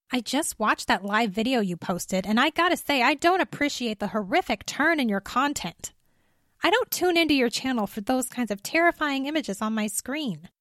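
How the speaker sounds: tut-tut at a creator's content; dismayed woman. Acted. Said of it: "she said, dismayed".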